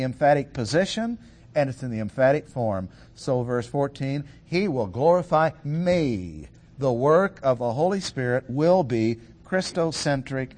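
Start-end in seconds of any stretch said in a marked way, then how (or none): 4.4-6.5 slow, deliberate reading landing on "me"; stress on "me". Shown as a demonstration. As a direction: draw out "me" for emphasis. Demonstrates the emphatic word me.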